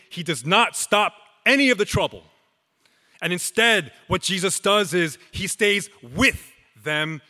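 building preaching emphasis. Real, not acted. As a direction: hammer every NOT harder as the list builds. Preacher builds repeated denials.

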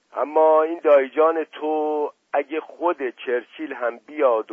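put-on knowing, jokey older man; playful worldly uncle; Asadollah Mirza voice. Asadollah explains.

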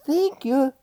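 mock-stunned echo; incredulous echo. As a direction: thank you? with a rising, disbelieving lift. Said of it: "And I just look at her like".

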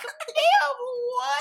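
high, loud disbelief; retold astonishment. Onlooker watching a fan climb people, retold astonishment. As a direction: exclaim it in exaggerated shock.

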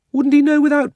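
high question. Acted. Polly asks indignantly.

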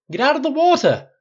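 furious high bellow; thundering shout. A narrator's reading. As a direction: thunder the order at full voice. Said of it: "Flynn thundered towards him".

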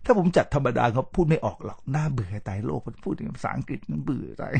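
dull and subdued, fading very soft; ordinary, bored delivery. Shown as a demonstration. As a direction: talk as if bored to death, no energy. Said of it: "ถ้าผมจัดธรรมดา, น่าเบื่อตาย". (พูดเนือยๆ เบาลง น่าเบื่อ)

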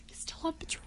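spooky teasing whisper; giggly prank whisper. Pretend. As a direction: breathe it like a ghost prank. Teasing spooky joke repeated.

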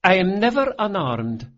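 put-on little girl voice. A narrator's reading. Daughter boasting about her spiked boots, high. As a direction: declare it like a tiny warrior. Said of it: "said the little girl".

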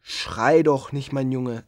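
put-on calm the child gently; gentle soothing. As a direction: monster soothing a crying boy. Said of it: "sage ich zu ihm".

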